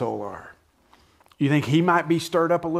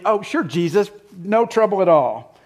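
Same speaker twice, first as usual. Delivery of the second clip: higher and louder, mock disbelief; sarcastic retort; 6 semitones higher, 6 dB louder than usual. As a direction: scoff at it like it's impossible. Skeptic answering Jesus's "don't be troubled.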